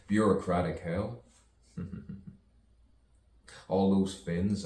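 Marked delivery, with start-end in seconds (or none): 3.7-4.7 louder first take. Shown as a demonstration. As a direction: punch all those Finns out louder. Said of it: "I said, all those Finns".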